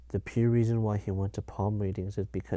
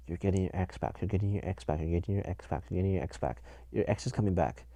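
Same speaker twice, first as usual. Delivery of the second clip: mock tarot reader; 2 semitones lower, 3 dB quieter, faster than usual. Mimicking repetitive tarot card readers.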